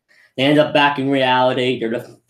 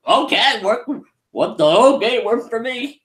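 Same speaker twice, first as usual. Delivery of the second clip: higher, offhand shrug of a voice; casual Gogeta; 10 semitones higher than usual. Retold or imitated. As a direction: Gogeta not caring that dimensions broke. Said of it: "Gogeta's just like".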